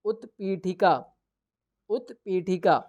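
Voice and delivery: द्विचक्रिका said syllable by syllable with a falling close; clear pronunciation. Shown as a demonstration. Teacher naming the cycle in Sanskrit, clearly. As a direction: spell out द्विचक्रिका in sound, then repeat it. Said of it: "इसको क्या कहते हैं".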